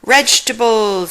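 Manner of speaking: Scooby-Doo growly dog voice, disgusted; a dog's grossed-out howl of the word. Acted. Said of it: "Scooby made a face".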